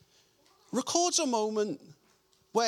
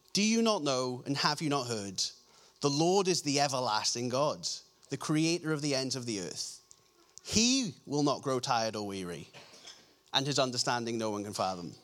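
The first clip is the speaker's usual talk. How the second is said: lower, measured reading of scripture; 9 semitones lower, 3 dB quieter than usual. Acted. Preacher reads a verse about God to the congregation, lowered solemn reading. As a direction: read the verse out solemnly, voice dropped.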